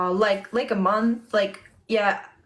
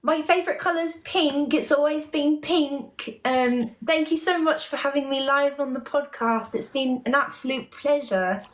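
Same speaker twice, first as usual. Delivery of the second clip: put-on London accent, gracious podcast guest; 2 semitones higher than usual. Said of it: "talk like that, like, with that accent".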